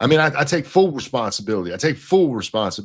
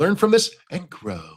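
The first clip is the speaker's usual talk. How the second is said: mocking put-on little childish voice, higher; 4 semitones higher than usual. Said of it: "that little gay kindergarten voice he went into".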